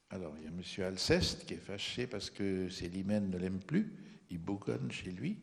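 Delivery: ordinary talk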